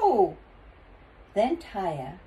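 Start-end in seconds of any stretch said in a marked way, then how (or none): 0.0-0.4 long, loud yelled refusal; group yell. A narrator's reading. Father and children all refuse, yelling. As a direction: yell it, drawing the word out. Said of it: "all yelled".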